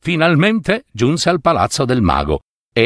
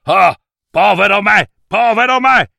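high-pitched cry of dismay; wailing cry; 9 semitones higher, 4 dB louder than usual. A narrator's reading. Wizard sees the sword in the youth's hand, wailing. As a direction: cry out high in self-pity, like a terrified wizard. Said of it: "urlò".

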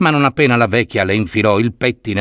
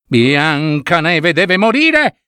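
slow, higher, menacing vow; envious queen; 4 semitones higher, much slower than usual. Acted. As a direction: drag out each word of the threat. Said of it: "si sentì soffocare dall'invidia". (la regina giura vendetta, lenta e minacciosa)

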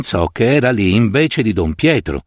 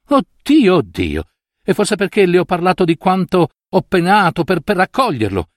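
high, rising, near-tears pleading; an old woman breaking down as her vow is refused; frightened old woman; 8 semitones higher than usual. A narrator's reading. Old woman begging the priest to accept her vow, high and tearful. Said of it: "quasi atterrita".

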